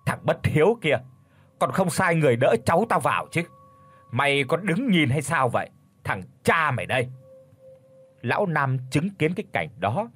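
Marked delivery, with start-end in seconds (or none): 0.1-7.1 a touch of a scolding yell. Acted. Báu as grandfather scolding Nam, mild yell. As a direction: berate the unfilial son, mildly raised. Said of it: "chỉ mặt mà thét lromo".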